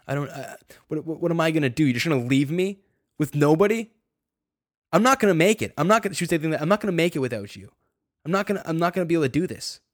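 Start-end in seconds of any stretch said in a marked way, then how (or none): 0.1-6.1 acted-out panicked pleading, rising higher and louder; retold desperate plea. Girlfriend begging him not to leave her, desperate. 6.6-9.8 higher, hurried mock pleading; retold desperate plea. Girlfriend begging him to stay, desperate.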